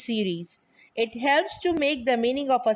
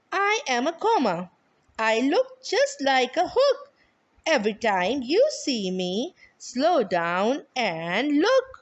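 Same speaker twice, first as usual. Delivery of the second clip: poem recital. Shown as a demonstration. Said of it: "picture of a comma with a small poem".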